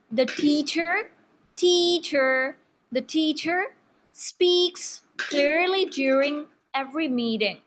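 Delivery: slow, careful teacher demo; slow model reading. Shown as a demonstration. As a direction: say it slowly for the class to copy. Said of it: "everyone repeat after me".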